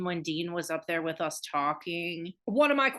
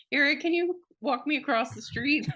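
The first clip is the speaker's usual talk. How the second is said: higher-pitched mock helpless request; lightly put-on pleading kid; teasing mock plea; 6 semitones higher than usual. Host teases friend about wanting adult safety, mock plea. Mocks friend as a scared child.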